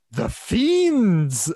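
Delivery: loud, high, drawn-out overdramatic outcry; Batman. Retold or imitated. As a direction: imitate a hammy hero crying out. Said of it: "the way he says it".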